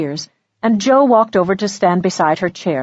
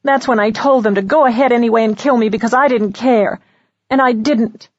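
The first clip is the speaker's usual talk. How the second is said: lightly voiced, higher, hurried defiance; upset young woman; 5 semitones higher, faster than usual. Young woman saying she stopped caring, upset and high. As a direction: rush it out, pitched up.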